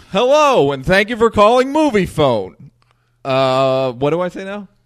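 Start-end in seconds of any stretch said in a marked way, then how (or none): 0.1-2.7 loud, high announcer voice leaning on final syllables. Trying the movie phone impression again, hitting the last syllable: Moviefone guy voice. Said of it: "The last syllable is the key to the movie phone guy".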